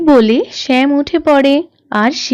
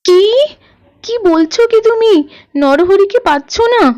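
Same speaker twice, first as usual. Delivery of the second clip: shocked; 4 semitones higher than usual. Acted. Mother hears rooster is lost.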